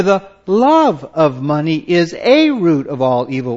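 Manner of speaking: A said as a full "ay" and stressed. Shown as a demonstration. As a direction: hit A in "a root", pronounced like the letter. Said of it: "We often hear it".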